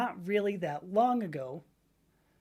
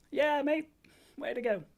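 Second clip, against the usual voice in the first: high-pitched, badly done Irish accent; horrible Irish accent; 8 semitones higher than usual. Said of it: "I do a horrible Irish accent".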